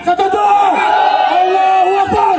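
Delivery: high shouted takbir. Real, not acted. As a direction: yell it from the crowd. Crowd member shouting.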